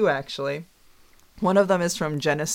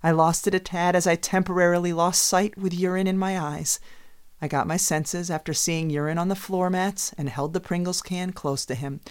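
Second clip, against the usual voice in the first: dramatic reading. Pretend. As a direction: overplay the drama of the story. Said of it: "It would be something like this".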